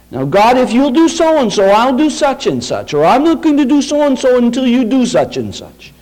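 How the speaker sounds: mock a child haggling with God; childish bargaining with God. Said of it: "that childish kind of testing".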